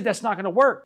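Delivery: imitating a mother's rebuke; retold motherly refusal. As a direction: firmly shut it down, pitch up. Retold mother scolding her sentenced son.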